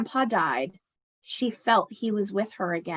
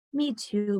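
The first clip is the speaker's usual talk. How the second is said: sighing; 4 dB quieter than usual. Acted. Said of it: "Grandma sighed".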